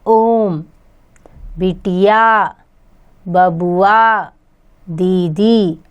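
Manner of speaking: ओम, बिटिया, बबुआ, दीदी each with its final vowel stretched to triple length; ओम, बिटिया, बबुआ, दीदी with the end vowel held three times as long as a short one; prolonged pluta vowels. Shown as a demonstration. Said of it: "तीन गुना समय लगाकर बोलना चाहिए".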